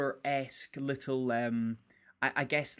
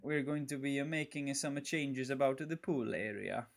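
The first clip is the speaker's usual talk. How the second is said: put-on Italian accent; 6 dB quieter than usual. Co-host attempting Jared Leto's character, shaky fake Italian accent. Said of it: "like a guy trying to do an Italian accent".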